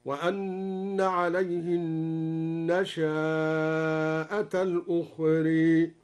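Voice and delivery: النشأة with the shin held long, nashaa-a, slow; lengthened shin demo. Shown as a demonstration. Teacher demonstrating the long madd reading, slow recitation. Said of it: "بمد الشين ... هكذا".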